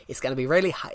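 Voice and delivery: lively American accent demo. Shown as a demonstration. Streamer showing guys how hell sounds in America, American accent. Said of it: "Hell described in American accent".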